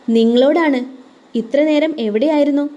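a wife's anger breaking through the question; voice trembling with anger. Acted. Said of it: "ആർദ്രയുടെ ശബ്ദം ദേഷ്യത്താൽ വിറച്ചു".

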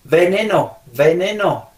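"veneno" con la V labiodental; V marcada. Shown as a demonstration. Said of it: "esta palabra que les voy a pronunciar". ("veneno" con uve bien diferenciada)

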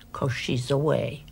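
soft teasing whisper. Acted. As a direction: breathe his name mockingly. Teasing him after his visit.

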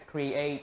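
create with the stress on ATE; stress on second syllable. Shown as a demonstration. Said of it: "các bạn nhấn vào âm hai".

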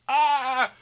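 high disgusted cry; mock retching groan. Son hearing dad drag out Italian, mock sick cry. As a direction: groan as if throwing up, hammed-up. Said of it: "I'm, like, throwing up".

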